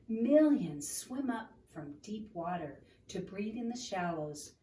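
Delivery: gentle read-aloud storytelling; story narration. Acted. Reading picture book aloud.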